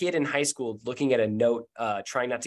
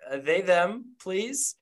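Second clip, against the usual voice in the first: higher, breezy character voice; Charlie's voice; 5 semitones higher than usual. Acted. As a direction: shrug it off casually.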